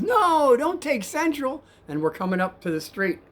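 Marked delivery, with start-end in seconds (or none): 0.0-1.6 high, loud mock yell; retold scream. Passenger overruling the cab driver's route, mock screaming. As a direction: imitate a passenger yelling a drawn-out protest. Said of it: "but he screams out".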